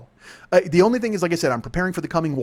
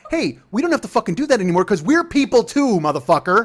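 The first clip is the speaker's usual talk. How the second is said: higher, emphatic standing-up-for-yourself voice; mock indignant protest; 4 semitones higher, 3 dB louder than usual. Someone in 1965 refusing old servility, mock indignant protest. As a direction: act out a fed-up protest. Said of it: "someone went".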